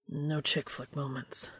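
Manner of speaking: quiet, slow, choked-up joke; watery smile to his partner; soft teary deflection. A narrator's reading. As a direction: brush off the emotion gently.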